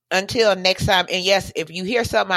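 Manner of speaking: talking around a cough drop; candy in the mouth while speaking. Real, not acted. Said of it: "I have a cough drop in my mouth".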